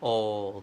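put-on "old" held on its L, tongue to the palate; drawn-out L. Shown as a demonstration. Tutor drills the tongue position for students, drawn-out L. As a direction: stretch "old" slowly into the L sound. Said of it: "ลิ้นจะไปแตะเพดานปากนะ".

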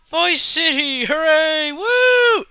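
high, loud whooping celebration; excited cheer. Real, not acted. Gamer cheering his return to Vice City, loud and whooping.

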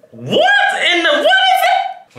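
high squeal through laughter; laughing in disbelief. Real, not acted. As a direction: shriek it while cracking up. Shocked at glasses in mirror.

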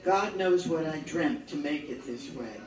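deliberate verse recital with pauses after short phrases; poetry recital, each image set on its own; poem reading. Acted. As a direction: read it line by line, letting each phrase fall. Reads poem titled Courage.

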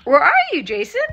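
calling out, close to crying; crying out for Jason; tearful calling. Real, not acted. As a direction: plead for him through tears. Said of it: "I am hanging on here".

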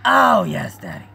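high, loud hammed-up swoon; mock swooning fans. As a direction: squeal it like a fan. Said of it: "they said".

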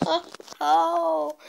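laughing it off; breathless laugh after a fall. Real, not acted.

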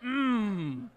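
mock triumphant whoop. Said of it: "Just like".

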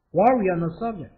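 slowed down, each word clear; slow careful repeat. Shown as a demonstration. Teacher repeating the phrase slowly for students. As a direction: model it slowly for learners. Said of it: "repeated slowly".

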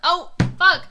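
loud laugh into a high cry of oh fuck; laughing curse. Real, not acted. Streamer catching her own blunder, laughing and loud. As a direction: burst out laughing, then swear loud. Realizes mistake in game.

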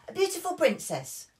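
high loud call-out; high childish call-out; eager interruption. Acted. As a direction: interrupt with excitement. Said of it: "called Peppa".

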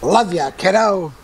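put-on slow, affectionate old-dad voice; fond dad. Dad hugging his daughter goodbye, fond. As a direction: say it like a proud father.

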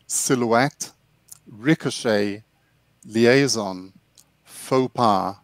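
each French loanword read out slowly as an English speaker says it; English pronunciation of French loanwords. Shown as a demonstration. Teacher demonstrates for the live audience, careful English pronunciation. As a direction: say "clichê", "chic", "débris" the English way, word by word with pauses. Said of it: "o David vai mostrar pra gente como pronunciá-las".

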